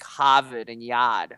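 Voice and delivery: Boston-style dropped R's in "Harvard and Yad"; slow Boston accent demo. Shown as a demonstration. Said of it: "realized about the Boston accent".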